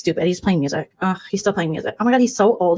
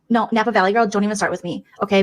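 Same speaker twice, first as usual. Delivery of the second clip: ordinary talk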